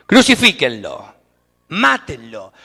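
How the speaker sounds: loud, slow angry mob shout; crowd yelling crucify him. Retold or imitated. The crowd turning on Jesus, yelling loud for his death. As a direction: bark it like a furious mob.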